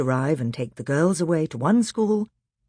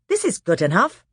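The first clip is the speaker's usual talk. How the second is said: put-on higher pleased boy; satisfied boy; 7 semitones higher, 5 dB louder than usual. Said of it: "said Peter".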